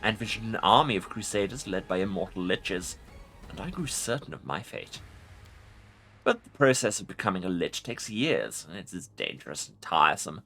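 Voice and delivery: commanding undead lich voice; ancient rasping undead king. Acted. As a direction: speak as a proud ancient lich. Lich voice in a game playthrough.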